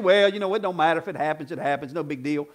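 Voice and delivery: a hint of a shrugging indifferent believer; mock indifferent. Preacher imitating a careless believer, mock indifferent. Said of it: "that attitude".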